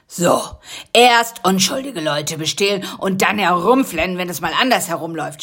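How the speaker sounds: a touch of smug teasing; mild needling. Acted. Karl-Heinz taunting the captured Rocky, mildly smug. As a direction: rub it in, gently mocking. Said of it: "stichelte er".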